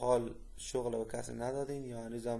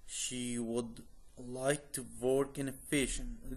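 slow careful model reading; much slower than usual. Shown as a demonstration. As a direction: read it slowly for learners to repeat. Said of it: "read twice, second slower".

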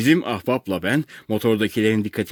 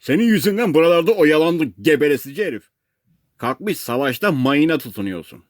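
fast, raised, scolding outburst; angry shouting; 6 semitones higher, 3 dB louder than usual. A narrator's reading. Crew scolds the rescued man for delay, angry shouting. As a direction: berate him loudly, pitch up. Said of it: "Megafonsuz bağırıyorlar artık".

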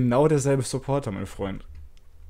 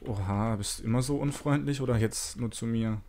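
digitally distorted voice; voice changer; 4 dB quieter than usual. Real, not acted. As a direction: speak through a voice changer. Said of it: "ich mach mal den Stimmverzerrer kurz aus".

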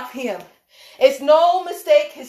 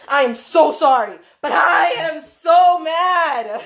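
laughing while mad; slower than usual. Real, not acted. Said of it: "I'm still laughing".

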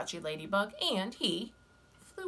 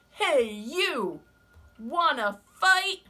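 high, loud, grumpy bug; grouchy ladybug voice; 8 semitones higher, 9 dB louder, much slower than usual. Acted. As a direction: bark the challenge up high. Ladybug challenges mantis.

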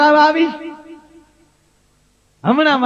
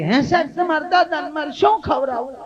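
simple village woman; 5 semitones higher than usual. Retold or imitated. Village woman asking doctor.

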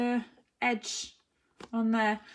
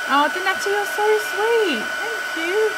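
high, loud and touched; real delighted thanks; 11 semitones higher, 10 dB louder than usual. Real, not acted. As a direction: gush over a sweet comment. Thanking a viewer's kind comment.

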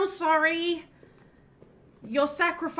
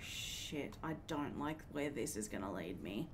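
whispering; 19 dB quieter than usual. Real, not acted. Scared in dark game level.

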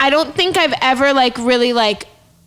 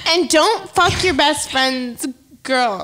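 slow deliberate; much slower than usual. Real, not acted. Mock outro warning.

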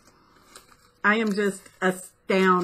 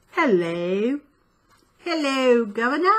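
botched attempt at British accent; clumsy mock-British accent; bad British accent. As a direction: try a British greeting and miss. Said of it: "Not in a British accent".

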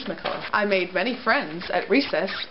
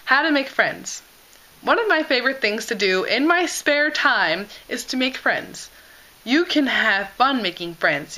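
lightly voiced earnest child reading; reading childhood essay. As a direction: read like a proud first grader. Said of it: "So I wrote".

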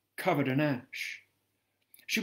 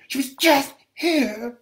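much higher and louder, breaking into a cry; desperate cry; 12 semitones higher, 8 dB louder than usual. Acted. Frantic mother crying out to a stranger, louder than before. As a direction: repeat it as if panic takes over. Woman repeats it more desperately.

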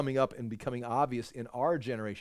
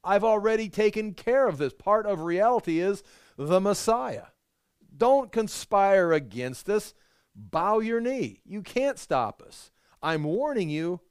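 God's stern warning; 5 semitones higher, 3 dB louder than usual. Acted. Voicing God warning the nations.

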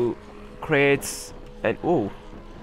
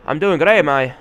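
louder, hammed-up Arabic accent; mock Arabic accent; 3 dB louder than usual. Streamer replying to a game character, mock Arabic accent. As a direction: answer in a put-on Arabic accent. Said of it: "I have to talk like that".

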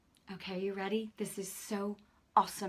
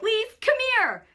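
higher, louder call from upstairs; 13 semitones higher, 10 dB louder than usual. Retold or imitated. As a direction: call her up, high and loud. Husband calls her from upstairs.

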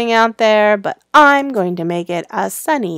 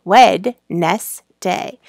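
slow and drawn out; 2 semitones lower, much slower than usual. Shown as a demonstration. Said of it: "slow spelled-out demo".

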